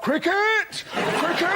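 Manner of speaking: high, exclaimed cry; Telegraph voice. Acted. Telegraph piping up with its only news, high excited cry. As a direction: pipe it out high like a blinkered enthusiast. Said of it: "Tell 'em, Telegraph".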